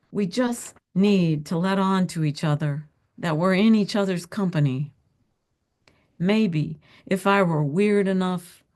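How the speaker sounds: measured, reflective reading of a literary story; story narration. A narrator's reading. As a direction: read it out to an audience, pausing between images. Author reads her story aloud.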